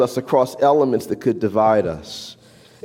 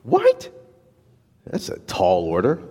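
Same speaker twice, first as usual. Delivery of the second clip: mock alarm; 6 semitones lower than usual. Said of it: "Now you may say".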